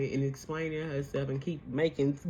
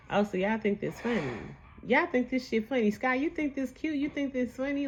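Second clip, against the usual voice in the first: mock confrontation; 6 semitones higher than usual. Quoted confrontation over laughing.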